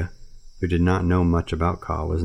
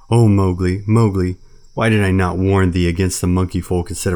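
lamenting bear; 5 dB louder than usual. Acted. Baloo mourning Mowgli, loud wailing old bear. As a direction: howl out the bear's grief.

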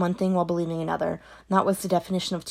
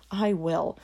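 whisper. Acted. Daughter whispering promise.

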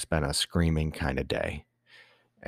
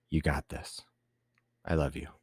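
soft unvoiced whisper of support; retold whisper; 4 dB quieter than usual. Wife whispering encouragement to her tearful husband, hushed. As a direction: breathe it gently like a loving reassurance. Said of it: "she just said".

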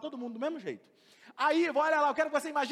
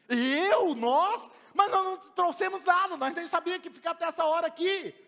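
louder, higher startled protest; shocked protest; 3 semitones higher, 4 dB louder than usual. Acted. Disciples answer Jesus' order in loud disbelief. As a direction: caught off guard, push back.

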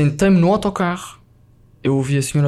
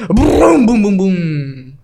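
loud high burst, slowing into booms; imitated crash rumble; 4 semitones higher, 4 dB louder, much slower than usual. Storyteller mimicking the gust near the runway, booming sound effect. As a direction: mimic a plane jolted by a violent gust.

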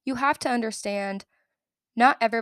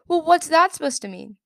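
louder, higher indignant comeback; indignant retort; 7 semitones higher, 8 dB louder than usual. Retold or imitated. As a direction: throw it back at him, affronted. Indignant retort to scoffing student.

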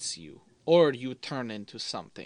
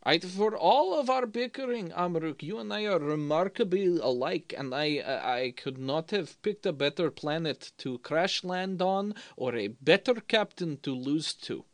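heartfelt character toast; 5 semitones higher than usual. Acted.

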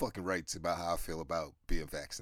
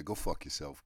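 lower, plainer repeat of go fuck yourself; flat blunt repeat; 3 semitones lower than usual. Real, not acted. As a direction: say go fuck yourself again flatly. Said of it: "if I'm just being honest here".

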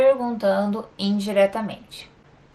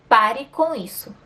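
a firm order, a little louder; firm command; 3 semitones higher, 4 dB louder than usual. Shown as a demonstration. Teacher demonstrates an order to the class, firm and clipped. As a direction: tell them to stop, firmly. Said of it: "Eu vou indicar uma ordem".

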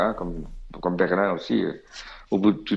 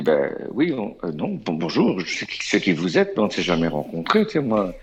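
hesitant, lower-pitched stammer; re-enacted bashful fumbling; flustered reply; 3 semitones lower than usual. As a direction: stumble politely through an awkward correction. Acting his own flustered reply.

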